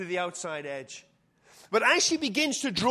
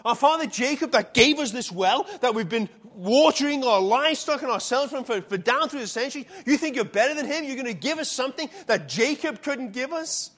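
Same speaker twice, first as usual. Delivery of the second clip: defensive challenge; 3 semitones higher, 5 dB louder than usual. Acted. Woman challenges Jesus defensively.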